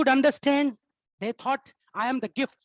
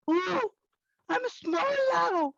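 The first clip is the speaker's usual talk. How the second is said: much higher, slow little voice; high, slow voice of a man just shrunk; tiny shrunk voice; 10 semitones higher, slower than usual. Acted. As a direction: squeak out the shock of being small. Shrunk into a dwarf.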